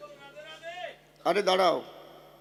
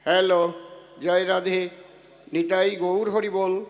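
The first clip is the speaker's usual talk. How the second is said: loud mic test calls; 5 dB louder, slower than usual. Shown as a demonstration. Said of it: "loud mic test calls".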